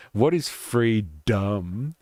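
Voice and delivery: slow, drawn-out sneering question; mock grandeur. Host mocking the citation's talk of freedom, slow and sneering. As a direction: stretch it out like a pompous orator.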